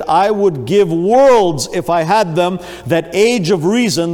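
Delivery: slow and loud, stretching worlds out in despair; a preacher acting a dying man's despair; anguished deathbed plea. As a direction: plead like a dying man full of regret. Dying infidel's anguished last words.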